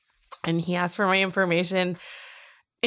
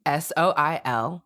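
slow, letter by letter; slow spelling; much slower than usual. Real, not acted. Giving the show's listeners their Instagram handle, slow spelling.

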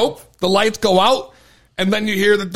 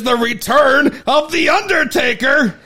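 higher, louder, slow announcer call; announcer build-up; 7 semitones higher, 4 dB louder, slower than usual. Real, not acted. Host announcing the Undertaker's return to listeners, slow loud announcer call. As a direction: call the name like a ring announcer.

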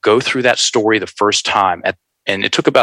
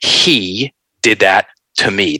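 DID leaned on, slow; slow, weighty "He did that to me." with "did" hit; emphatic victim line; slower than usual. Shown as a demonstration. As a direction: stress "did" in "He did that to me.". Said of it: "simple math".

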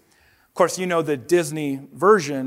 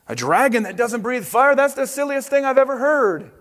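mocking disbelief; 7 semitones higher than usual. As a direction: scoff at the very idea. Knight mocks a dragon.

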